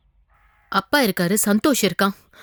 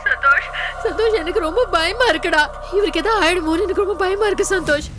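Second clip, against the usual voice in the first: tearful pleading. Acted. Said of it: "அழாத, அழாதன்னு சொல்றேன்ல".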